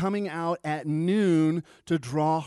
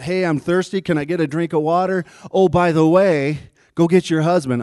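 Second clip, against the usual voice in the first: mock casual request; 4 semitones higher, 7 dB louder than usual. Mock dialogue, sudden turn.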